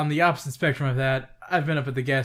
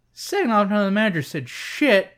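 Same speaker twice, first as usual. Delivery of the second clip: raised, louder retort at the scammer; angry retold rant; 6 semitones higher, 5 dB louder than usual. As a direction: tell him off sharply, pitch up.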